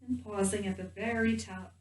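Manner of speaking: gentle guided meditation voice with long pauses. Real, not acted. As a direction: guide them calmly into the body, leaving space between phrases.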